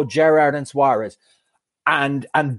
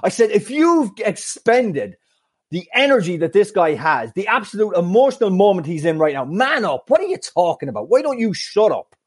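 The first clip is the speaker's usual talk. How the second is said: higher mock angry retort; mild mock telling-off, pitched up; retold outburst; 4 semitones higher than usual. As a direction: snap back at the heckler, retelling it. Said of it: "I turned round. I said".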